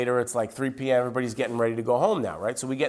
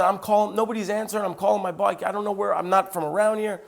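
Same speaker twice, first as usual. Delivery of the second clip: higher-pitched retold agitation; very upset; 6 semitones higher than usual. Stranded driver can't reach anyone for help, very upset. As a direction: imitate a stranded man's fretting. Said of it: "very upset".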